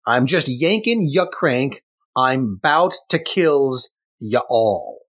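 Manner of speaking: slow, hammed-up cartoon thug taunt; lightly voiced comic-book thug; Taskmaster voice again. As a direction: read it like a cheesy villain. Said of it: "That's exactly what it says".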